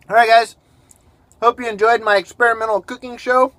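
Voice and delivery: talking with a mouth full. Real, not acted. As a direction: speak through a mouthful of food. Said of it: "now I'm talking with my mouth full".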